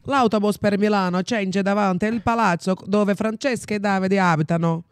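Italian phrasebook lines, slow and loud; italiano decorado. Shown as a demonstration. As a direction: recite them like a memorized language tape. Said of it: "o pai da Xanda ensinou pra ela gravar". (italiano de livro didático, devagar e em voz alta)

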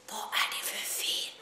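soft, fast whisper; a man whispers to calm a girl at night. Acted. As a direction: hush it so neighbours sleep on. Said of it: "viskade jag".

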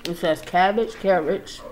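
chewing while talking; talking between bites; mouth full of food. Real, not acted. Seen 1: Ate at -4.0; lips pursed, cheeks working while reading the package.

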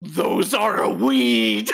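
slow, creepy crone warning; creepy witch voice. Acted. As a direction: warn them slowly like a witch. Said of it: "that creepy voice you were doing".

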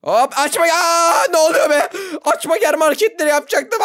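loud, high shout of protest; shouting in sudden panic; alarmed yelling. Real, not acted. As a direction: yell out as intruders burst in. Noobs burst in, player yells.

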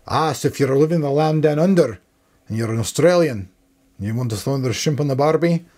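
hammed-up attempt at an Aussie accent; mock Australian accent; bad Australian accent. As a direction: have a go at an Australian accent, badly. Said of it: "Probably not my best Australian accent".

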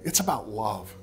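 measured, earnest prayer with long pauses; closing prayer. Real, not acted. Pastor praying for struggling parents, in a measured prayer voice. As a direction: pray aloud, softening as it goes on.

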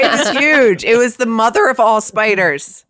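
excited exaggeration. Real, not acted. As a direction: play up the size.

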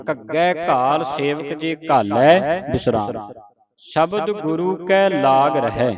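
slow, measured Gurbani reading; scripture recitation. Shown as a demonstration. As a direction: recite slowly, drawing out the words.

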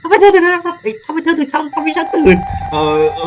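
very high, loud put-on ghost mother scolding. Ghost mother scolding her son for waking her, high put-on voice. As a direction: play the woken, cranky ghost mom.

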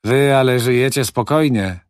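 good-natured contempt. A narrator's reading. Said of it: "z dobroduszną pogardą".

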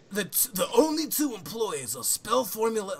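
lightly hammed-up flamboyant reading. Reading the company blurb to friends, mock flamboyant. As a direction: read with a theatrical lilt. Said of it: "flamboyant voice".

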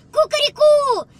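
loud, high crowing cock-a-doodle-doo; rooster crow. Retold or imitated. Rooster crow heard from burrow.

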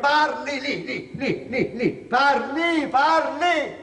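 high, loud goading shout; high, loud, slow retold goading shout; shouting at her to speak. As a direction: yell it at her, slowing and hammering. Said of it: "glielo gridai finanche".

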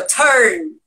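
"Turn" with a wide-open E for the U. Shown as a demonstration. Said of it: "Abre o E".

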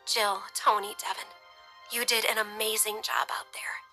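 grateful. A narrator's reading. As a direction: tinge it with gentle gratitude. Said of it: "her voice tinged with gratitude".

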